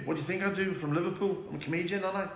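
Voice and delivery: mock Scouse comedian; lightly put-on Scouse; put-on Liverpool accent. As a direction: answer in a pretend Liverpool accent. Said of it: "I was talking like that".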